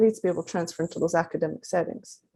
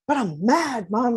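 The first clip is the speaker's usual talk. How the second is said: higher-pitched mock upset little boy; tearful mad child; 3 semitones higher, slower than usual. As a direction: protest to Mom, lightly imitating a crying child. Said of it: "and tears roll".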